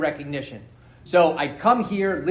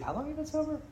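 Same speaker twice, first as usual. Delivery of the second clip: sponsor voice; 10 semitones higher, 11 dB quieter, faster than usual. Retold or imitated. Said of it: "He's like".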